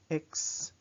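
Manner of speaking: "Excusez-moi" broken up sound by sound, crisp K-S; French "Excusez-moi" in separate syllables, X unvoiced as K-S; pure X sound. Shown as a demonstration. Teacher shows the French X, "Excusez-moi" syllable by syllable. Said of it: "It's X sound".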